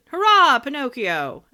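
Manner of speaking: loud, high hurrah; cheering shout. A narrator's reading. The boys cheering Pinocchio's leap, loud and high. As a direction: cheer him like a crowd.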